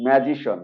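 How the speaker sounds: "ম্যাজিশন" ending in one syllable shon; correct SHON ending. Shown as a demonstration. Teacher gives the correction, "ম্যাজিশন" ending in shon. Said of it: "এখন থেকে বলবো".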